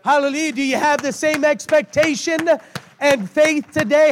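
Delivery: worn-out, hoarse preaching voice. Real, not acted. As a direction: preach through a voice that's nearly gone. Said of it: "As you can hear, my voice is gone".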